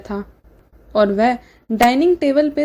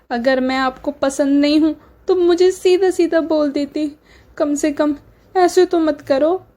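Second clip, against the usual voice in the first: higher, whining play-hurt plea; fake crying; 4 semitones higher than usual. Sister-in-law playing the victim before her mother, mock tearful. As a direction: put on tears to win sympathy. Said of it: "रो मत मेरी बच्ची".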